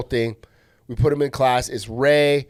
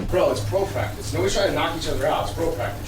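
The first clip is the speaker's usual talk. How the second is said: acted argument; 3 semitones higher than usual. Acted argument at front desk.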